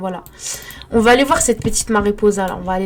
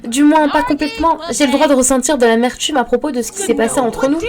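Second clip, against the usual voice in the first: voiced Sim line; 5 semitones higher than usual. Voicing a Sim's dialogue line.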